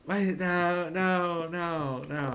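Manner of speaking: high loud panicked no; alarmed no. Real, not acted. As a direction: stop it in a panic. Panicking at game event.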